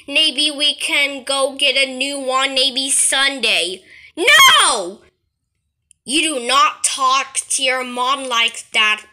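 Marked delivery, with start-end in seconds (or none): 4.1-5.0 higher, louder shouted no; tantrum no. Acted. Kid refuses his parent's offer, shouted no. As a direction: bark a defiant no.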